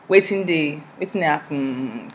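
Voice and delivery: halting attempt at Nigerian pidgin; bad pidgin. Shown as a demonstration. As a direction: try Nigerian pidgin, not very well. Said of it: "my pidgin isn't good".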